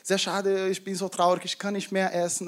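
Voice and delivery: softly sad, a touch downcast; mildly sad Hannah. Acted. Hannah tells Elkanah she is sad, mildly sorrowful. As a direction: let a little sorrow into it. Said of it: "dann war Hannah ein bisschen traurig".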